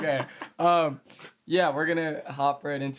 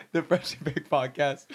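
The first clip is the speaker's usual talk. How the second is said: higher London roadman voice; London accent; 5 semitones higher than usual. Pretend. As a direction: greet them like a London roadman. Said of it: "in a U K accent".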